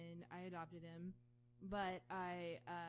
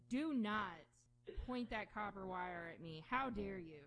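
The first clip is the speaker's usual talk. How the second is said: lightly voiced indignant dog; emphatic, scolding, affronted opening; mock outrage. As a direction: play alarmed outrage, with a touch of mockery. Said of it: "incredibly alarmed and outraged".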